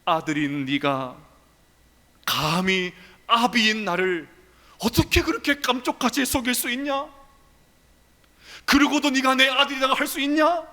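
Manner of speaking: a father scolding his deceitful son; rebuking father. Acted. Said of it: "아버지 이삭의 음성이 들리는 것 같습니다".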